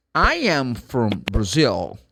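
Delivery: slow and deliberate, for learners; slow, clear model sentence. Shown as a demonstration. Teacher modelling a sentence slowly for students. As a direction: spell it out slowly for the class. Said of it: "If I say".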